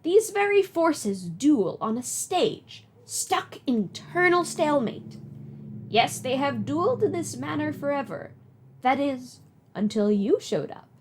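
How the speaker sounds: Nana voice. Acted. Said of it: "Do you like my Nana voice?".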